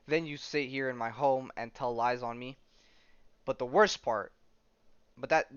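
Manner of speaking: mildly heated, emphatic accusation; acted indignation. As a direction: read it as a character fed up and laying out grievances. Acting out an indignant accuser's tirade.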